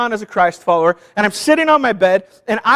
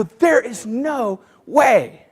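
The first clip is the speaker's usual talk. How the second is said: defeated; much slower than usual. Retold or imitated. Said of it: "I just look at it and I go".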